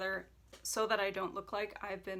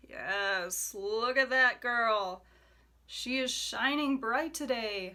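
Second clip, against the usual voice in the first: slow, louder, delighted praise; gushing; 2 semitones higher, 5 dB louder, slower than usual. Real, not acted. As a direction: gush over her like a proud fan. Gushing over a palette.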